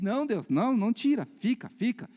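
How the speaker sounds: high, loud mock pleading; resisting plea. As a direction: beg God to leave it be. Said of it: "E a gente, quando resiste". (súplica encenada, resistindo)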